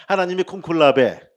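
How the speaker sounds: loud, emphatic prompt to echo; leading a group chant, loudly; call for repetition. Shown as a demonstration. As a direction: belt it out for the congregation to repeat. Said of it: "따라합시다".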